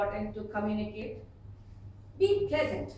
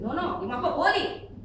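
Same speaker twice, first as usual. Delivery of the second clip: raised, insistent correction, imitating the son; retold son; 3 semitones higher, 5 dB louder than usual. Son correcting puzzled parent, imitated insistence. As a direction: correct the listener a bit louder, as the son. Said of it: "He said".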